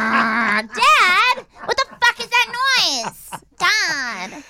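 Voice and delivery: high-pitched exasperated yell to Dad; whiny, drawn-out shout at a parent; irritated yell. Acted. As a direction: holler in outrage over an awful noise. Kid yelling over dial-up noise.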